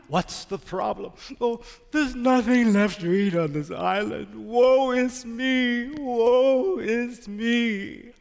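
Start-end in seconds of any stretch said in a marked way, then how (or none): 1.4-8.1 hammed-up woe, very slow; mock-sad rat moaning slowly; mock lament. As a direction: drag out the rat's self-pity. Rat laments his hunger.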